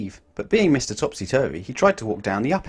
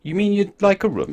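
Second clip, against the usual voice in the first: high, puzzled question; puzzled manager; 9 semitones higher, 4 dB louder than usual. A narrator's reading. Hotel manager puzzling over the request, high and puzzled. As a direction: check what the guest means. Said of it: "he asked".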